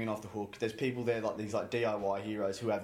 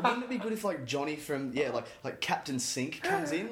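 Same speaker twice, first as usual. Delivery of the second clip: mock longing; 3 semitones higher than usual. Bored staff dreaming of a customer, mock wistful. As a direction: sigh for it like a lovesick fan. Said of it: "going, like".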